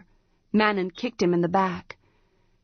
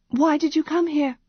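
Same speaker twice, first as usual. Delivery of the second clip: demanding; 9 semitones higher than usual. A narrator's reading. Priestess demanding.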